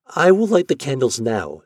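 a hint of a nervous young girl; young Yuli's voice. Yuli speaks her resolve.

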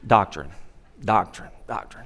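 low, weary mock groan of dread. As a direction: sigh it out like a bored listener dreading a lecture. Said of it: "some of you automatically go".

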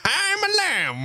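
very high, slow, bleating lamb voice. Shown as a demonstration. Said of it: "How do you do an impression of a lamb?".

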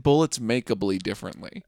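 "makeably" run together as one word; quoted slurred mispronunciation. Retold or imitated. Teasing co-host repeating a slip, mock slurred "makeably". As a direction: mimic the slip "makeably", words blurred into one. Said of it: "I think you said".

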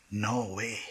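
soft, whispered disbelief; stunned refusal. Retold or imitated. Man shocked by God's call to serve, whispered disbelief. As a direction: let it out under the breath, barely voiced.

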